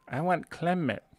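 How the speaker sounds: put-on mother's Asian accent. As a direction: imitate her accented English, word mispronounced. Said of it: "her heavy Asian accent".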